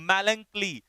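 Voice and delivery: "मेलंकली" said slowly and clearly as MAL-an-klee; "मेलंकली" in three careful syllables, falling at the end; pronunciation demo. Shown as a demonstration. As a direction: model the word "मेलंकली" for learners, first syllable drawn out. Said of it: "क्या पढ़ेंगे इसे".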